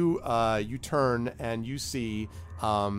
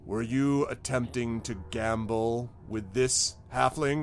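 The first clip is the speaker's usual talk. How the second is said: slow, measured questioning by a guard; lightly voiced suspicious guard, taking time; interrogating guard; slower than usual. Guard questions suspects sternly.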